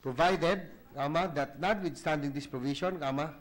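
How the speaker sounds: reading text aloud for the record, punctuation spoken; dictating. Acted. Reads amended subsection with punctuation.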